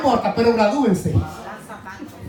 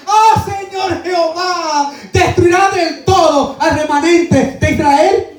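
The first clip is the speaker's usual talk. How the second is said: high, slow pleading cry to the Lord; crying out with a loud voice; 4 semitones higher than usual. Acted. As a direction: call out to God in anguish. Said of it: "clamé con gran voz".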